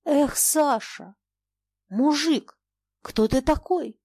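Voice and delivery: near shout. A narrator's reading. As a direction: call out urgently, just short of a shout. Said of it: "почти крикнул он".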